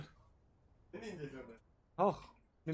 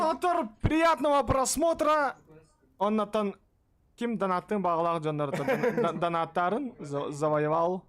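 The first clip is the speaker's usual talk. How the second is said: loud shoutout; 7 dB louder than usual. Real, not acted. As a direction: hype the donator. Thanking donator loudly.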